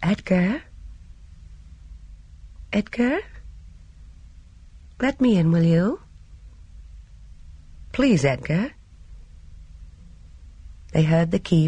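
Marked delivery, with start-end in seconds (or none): 0.0-8.7 gentle, coaxing call with questioning lifts; tender, lilting appeal; very soft calling. A narrator's reading. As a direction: coax someone through a door, gently pleading. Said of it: "She called very softly".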